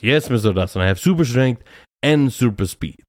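lightly voiced proud little boy; a small kid boasting, slightly lifted; four-year-old boy. Kid bragging to teacher about speed, lightly imitated little boy. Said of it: "it's spot on impression of him".

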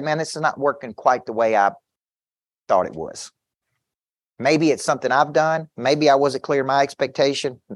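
even, unhurried reasoning with a client; calm appeal. Acted. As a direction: ask for help without any heat. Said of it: "I just calmly say".

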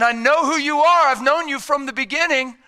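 high-pitched, heartfelt pleading; impassioned voice of a loving savior; earnest assurance. Acted. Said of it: "The cross is saying".

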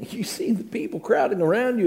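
breathy unvoiced whisper with a laugh in it; incredulous whisper. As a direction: whisper it in disbelief, half laughing. Disciple answers Jesus in disbelief.

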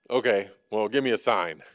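low, grudging demand for proof; doubting priest. Retold or imitated. A hint of a skeptical priest. Zechariah voiced doubting the angel.

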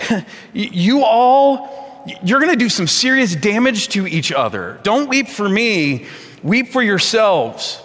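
drawn-out, earnest warning in Jesus' voice; preacher voicing Jesus pleading slowly. Paraphrases Jesus after a laugh.

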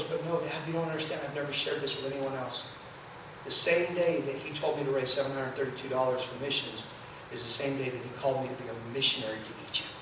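very soft, low confiding voice; hushed confession. Retold or imitated. Daughter shares her missionary calling with Dad, hushed confession. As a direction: let a secret out softly and low.

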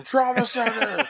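high, slow, mild mock yell from afar; from another room. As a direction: call it out like from the next room, drawn out. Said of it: "Jen's yelling from the other room".

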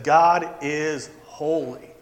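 slow, hushed awe; quiet reverent. Pretend. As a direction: say it slowly in reverence. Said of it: "Isaiah would have used that word".

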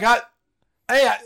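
high, loud frantic plea with a laugh; panicked pleading. Retold or imitated. Scared teen shouting through a stall door. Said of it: "I'm like".

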